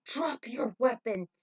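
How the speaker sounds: slow, loud order to drop the guns; commanding shout. Acted. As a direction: bark it like a cop cornering crooks. Jet bursts in commanding.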